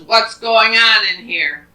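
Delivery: storybook woodchopper demanding answers; loud demand. Acted. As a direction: burst in and boom the question.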